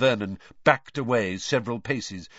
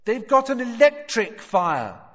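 high, loud explanation; calling out; 12 semitones higher, 6 dB louder than usual. A narrator's reading. Boy explaining to man behind boards, calling high and loud. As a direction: call it through a wall, pitched up. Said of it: "called through the boards".

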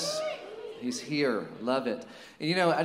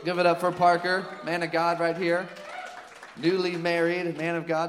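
louder, rallying the room; crowd hype-up; 3 semitones higher, 5 dB louder than usual. Real, not acted. Pastor getting the church to cheer for Parker, loud. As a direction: call it out like a hype man. Calling crowd to applaud guest.

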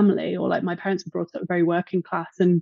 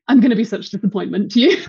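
laughing self-mockery; 5 dB louder, faster than usual. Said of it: "I'm also like".

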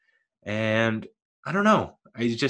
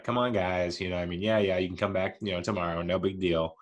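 softer, gentle easygoing coaxing; nicest way possible; 3 semitones lower, 5 dB quieter than usual. Retold or imitated. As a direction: ease the bar crowd out kindly and softly. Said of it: "like, the nicest way possible too".

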